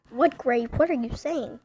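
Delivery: loud alarmed question; shocked. Acted. Alarmed reply to text.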